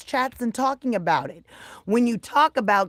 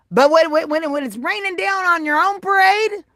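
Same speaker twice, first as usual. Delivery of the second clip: rising rant; 5 semitones higher, 3 dB louder than usual. Real, not acted. Building to a rant.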